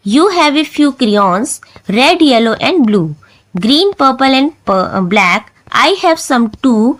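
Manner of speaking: put-on slow, careful recital of a children's poem; poem recitation. Shown as a demonstration. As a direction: read each line out slowly for the class. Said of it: "मैं आपको read करके दिखा देती हूँ". (धीमी आवाज़ में कविता पाठ)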